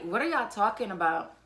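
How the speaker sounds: high, loud, shocked disbelief; can't believe what she hears. Retold or imitated. Shocked reaction to arrest.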